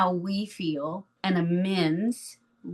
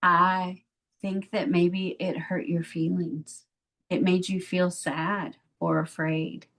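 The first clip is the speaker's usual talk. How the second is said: gentle parent apology. Pretend. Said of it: "so I'm gonna pretend that I yelled at my children".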